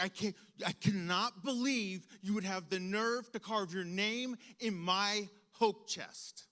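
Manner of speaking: mock-outraged mother, loud and slowing at the end; indignant scolding, drawn out on the last words; retold angry mom. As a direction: imitate an appalled parent's telling-off. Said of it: "yells in such a way I had never heard her voice so shrill".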